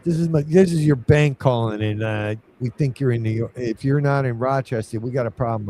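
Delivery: a hint of a New York caller; New York accent. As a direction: imitate a New York bank rep casually. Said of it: "with a New York accent".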